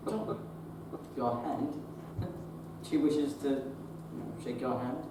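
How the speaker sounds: low, hushed aside; discreet prompting. Acted. Doctor prompting John to shake her hand, discreetly low. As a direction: prompt him gently under your breath.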